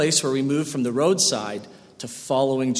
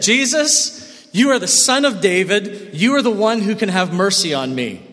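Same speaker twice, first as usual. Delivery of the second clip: mild retold cry; 3 semitones higher, 3 dB louder than usual. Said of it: "he yelled".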